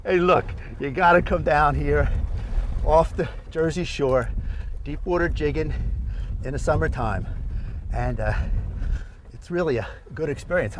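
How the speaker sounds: panting between phrases after reeling in; winded, gasping a little as you talk; out of breath. Real, not acted. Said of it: "you sound a little wore out".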